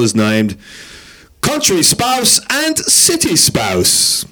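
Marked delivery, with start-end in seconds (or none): 1.4-4.2 attempted Scottish Donald Duck. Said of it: "But Scottish Donald Duck?".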